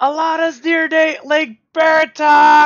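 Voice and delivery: very loud, very high, shrill, thunderous bird screech. Player, as a bird, alerting the village: loud screeching bird call. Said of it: "screech out in this like loud, thunderous bird call".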